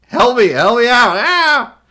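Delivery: hammed-up damsel calling for help; mock cry for help. Playing the trapped character, a high mock plea and shriek.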